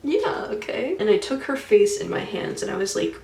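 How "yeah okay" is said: high, breezy yes; blithely agreeing as if nothing is wrong; smiling mom. Retold or imitated. Mom happily going along with the leader, high and breezy.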